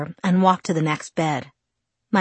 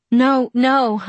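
urgent, higher and louder; insistent; 8 semitones higher, 6 dB louder than usual. Acted. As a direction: protest it quickly. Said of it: "I insisted".

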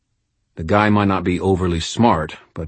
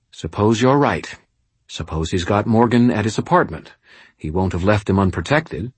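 impatient; 3 semitones higher than usual. Acted. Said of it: "her tone impatient".

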